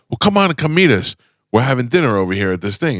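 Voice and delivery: a hint of a pushy New York pal; imitating Vinny Pastore. Imitating Vinny inviting him.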